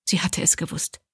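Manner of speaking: breathy whispered aside. A narrator's reading. Abby realising he is alive, whispered to herself. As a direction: whisper it like a secret.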